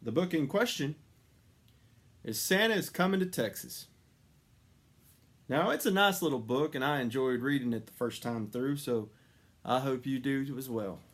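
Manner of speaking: bright reading-aloud voice; story intro. Acted. Reader introducing a children's book, bright and lively. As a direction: introduce the book to young listeners.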